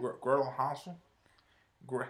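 talking through a mouthful of food; words muffled by a bite; mouth full. Real, not acted. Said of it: "Are you eating something".

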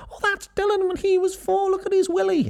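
very high cartoonish mom voice; gushing mom. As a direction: squeal it as a proud mom showing off. Mom showing an embarrassing photo.

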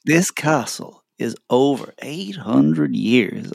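slow, lightly put-on tour guide voice; a hint of a calm museum guide; Dublin tour guide. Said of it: "Dublin tour guide voice".

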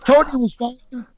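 sharp, loud insistence. Real, not acted. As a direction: say it sharply and loudly. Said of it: "Why are you yelling?".

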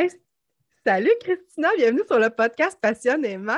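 salut pitched high and loud; bright eager welcome to the guest; excited greeting. Real, not acted. (accueil enthousiaste et aigu)

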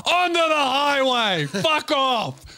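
high, slow enraged shout; the driver throwing the couple out, yelling; furious yell. Retold or imitated. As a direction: roar them off onto the highway. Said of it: "This guy was like".

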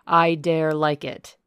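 stubborn defiance; defiant. A narrator's reading. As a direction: plant each word as a vow. Rochester defies the hag.

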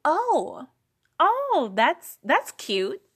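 mock patronizing "oh, that's cute"; high, drawn-out mock praise; imitating condescending networkers; condescending surprise. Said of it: "told that my business was cute".

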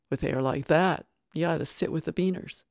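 loud sneering insult; mock him loudly; jeering taunt. Second inmate sneering at Ramsey, loud taunt.

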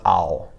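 "ao" with a froggy o ending. Shown as a demonstration. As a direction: let "ao" end in a froggy pinyin o. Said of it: "should have that similar frogginess".

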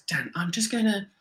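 imitating eerie composure, slowing at the end; really calm. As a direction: excuse yourself with mock serene politeness. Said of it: "really calmly".

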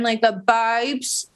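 slow, drawn-out babes with a filler pout; Essex accent with filler lips. Retold or imitated. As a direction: stretch babes with a pouty Essex mouth. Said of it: "she has a little bit of filler".

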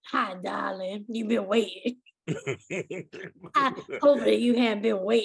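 a hint of an old preacher, smooth and courtly; lightly voiced old gentleman greeting his date; old pastor voice. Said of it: "he sounded just like this".

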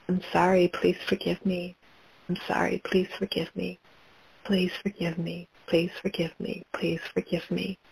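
hushed, repeated plea for forgiveness; quiet plea. Acted. Guide voices asking forgiveness for listeners, hushed plea. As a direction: ask gently, barely above a murmur.

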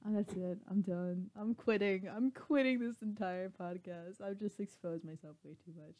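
said through a grin; grinning while talking; smiling voice. Real, not acted. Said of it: "hear the smile in my voice".

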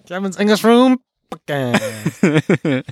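slow, goofy drawn-out intro; silly announcer voice. Shown as a demonstration. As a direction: ham up the show name. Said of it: "sounds like".

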